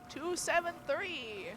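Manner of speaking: lightly voiced Count Dracula; vampire voice. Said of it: "I'm doing my vampire voice".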